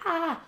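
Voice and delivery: high-pitched "ah" to fend off tears; sudden high emotional "ah"; holding back tears. Real, not acted. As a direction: let out a high "ah", fighting tears. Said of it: "I'm trying not to let".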